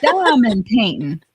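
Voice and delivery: drawn-out mock disbelief; baffled repeat. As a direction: stretch each word like a bewildered husband. Repeats baffling request as the man.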